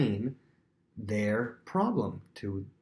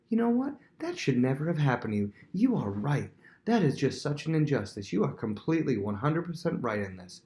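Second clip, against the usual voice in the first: higher-pitched indignant backing; emphatic validation; 4 semitones higher than usual. Acted. Friend backing up someone who was wronged, emphatic validation. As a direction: start high and take their side fully. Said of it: "They wanna be backed up".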